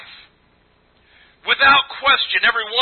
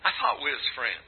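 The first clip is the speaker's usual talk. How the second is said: mock hurt aside; 9 semitones lower, 12 dB quieter than usual. Joking aside about age.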